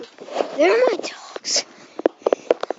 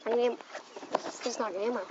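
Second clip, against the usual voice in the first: talking while bouncing; jolted voice mid-bounce; on a trampoline; 4 semitones lower, 7 dB quieter, faster than usual. Real, not acted. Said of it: "I'm on the trampoline".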